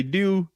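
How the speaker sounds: "do" with a rounded Baltimore vowel. Retold or imitated. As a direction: stretch "do" like a Baltimore guy. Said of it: "that nigga say".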